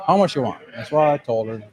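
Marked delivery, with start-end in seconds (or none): 0.1-0.6 put-on clipped broken English, Korean accent, higher pitch; mimicking Korean wife. Husband quoting his Korean wife agreeing, light Korean accent. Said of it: "leaves all the, the vowels out".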